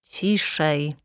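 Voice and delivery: quell the outburst with one word; stern rebuke. A narrator's reading. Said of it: "zgromił ją sędzia". (powściągliwa nagana sędziego)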